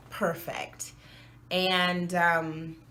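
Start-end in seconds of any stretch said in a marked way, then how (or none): 0.1-0.9 whispered. Real, not acted. Wistful aside about wanting perfect teeth.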